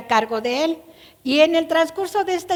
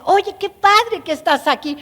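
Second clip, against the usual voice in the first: higher, glad king's greeting; cheerful welcome; 5 semitones higher, 3 dB louder than usual. Acted. King David greeting Mefiboset, higher and cheerful. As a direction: sound truly pleased to see him. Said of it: "el tono de voz de David".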